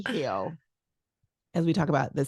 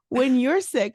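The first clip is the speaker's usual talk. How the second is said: louder, pointed opener; emphatic; 5 semitones higher, 5 dB louder, slower than usual. Retold or imitated. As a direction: stress "When you're sick". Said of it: "I go".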